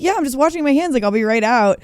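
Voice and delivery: high, singsong fake-casual call; retold breezy cover-up; innocent call-back. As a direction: call out through a door, acting innocent. Calling back through bathroom door.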